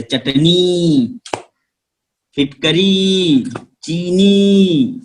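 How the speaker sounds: चटनी, फिटकरी, चीनी with a long held final ii, slow; long ii stretched. Shown as a demonstration. Teacher models long ii for pupils, slow and stretched. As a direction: press the teeth and stretch the ii. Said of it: "दांत मुंह को दबा के जोर से".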